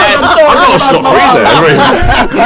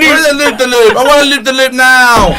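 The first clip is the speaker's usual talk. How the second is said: put-on seven-year-old; 2 semitones higher than usual. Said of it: "as if you were seven-year-olds".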